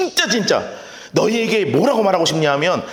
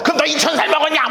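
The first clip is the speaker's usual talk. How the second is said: put-on higher, fast childish taunt; schoolkid squabble; 8 semitones higher, faster than usual. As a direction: sneer like a kid in a playground fight. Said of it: "초등학생들 싸우는 거". (초등학생처럼 높고 빠르게 놀리기)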